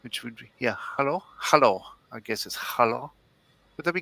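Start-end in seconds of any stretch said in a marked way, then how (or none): 0.8-1.8 trying out a German "hallo"; hello with a light German accent. Shown as a demonstration. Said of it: "with a German accent". 2.6-3.1 tentative German "hallo"; hello with a light German accent. Shown as a demonstration. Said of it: "with a German accent".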